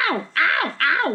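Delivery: high, lightly mimicked little boy's ouch; imitating a whining child. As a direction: mimic the son's complaints on the bumps. Son complaining on bumpy ride.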